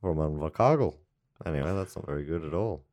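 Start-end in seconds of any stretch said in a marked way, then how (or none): 0.0-0.9 comic Kiwi radio character; put-on New Zealand place name; New Zealand accent. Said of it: "Kiwi I can do is".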